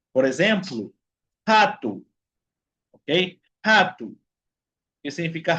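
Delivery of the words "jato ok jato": "jato" with the first consonant like a Spanish jota, stressed first syllable; initial R as J. Shown as a demonstration. Teacher showing Spanish speakers Portuguese initial R, J-sound demo. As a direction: say "jato" opening on a throaty Spanish J. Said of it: "tiene sonido de J en español".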